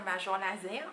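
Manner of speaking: deliberately French-accented English band name; French pronunciation. Shown as a demonstration. Unsure how to pronounce the band's name, French accent. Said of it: "À la française".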